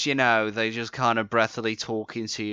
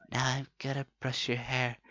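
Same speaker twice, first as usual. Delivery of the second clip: mock ASMR; 7 dB quieter than usual. Parodying ASMR hair brushing.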